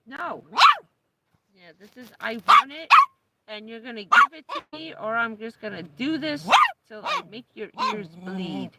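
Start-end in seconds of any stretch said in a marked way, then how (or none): 2.2-8.7 loud, pushy dog demands; voicing the dog. Owner voicing her pushy dog, loud. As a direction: speak for the dog, insisting.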